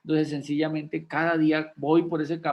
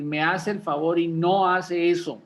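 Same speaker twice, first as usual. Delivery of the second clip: firm with authority; 4 dB louder than usual. Shown as a demonstration. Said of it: "lo hace uno con autoridad".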